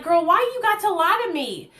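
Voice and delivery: lightly voiced disappointed Miss Kim; hurt counselor. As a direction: scold a friend you trusted. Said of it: "she's like".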